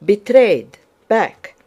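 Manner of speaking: loud, high warning call; urgent shout. A narrator's reading. Dólokhov warns Anatole at the gate, shouting. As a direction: shout your companion back. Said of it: "shouted Dólokhov".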